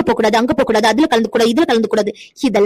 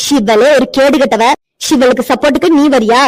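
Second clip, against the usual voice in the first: angry scolding; 4 dB louder than usual. Acted. Mother-in-law berates the friend.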